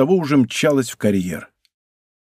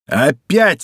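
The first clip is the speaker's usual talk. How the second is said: exclaims; 3 dB louder than usual. Acted. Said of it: "вскричал Д'Артаньян".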